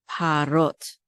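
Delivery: parot with the r joined straight onto ot; all together. Shown as a demonstration. Teacher contrasting it with a split word, parot said joined. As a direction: run parot together as pa-rot, no stop at the r. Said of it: "it goes all together".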